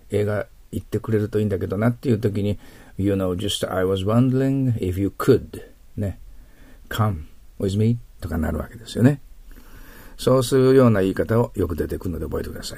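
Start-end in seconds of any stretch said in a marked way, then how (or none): 3.0-8.0 slow, hesitant asking-out line; slow hopeful invitation. Pretend. Teacher acts out asking someone to a movie, slowly. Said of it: "君僕と一緒に映画行ってくれる".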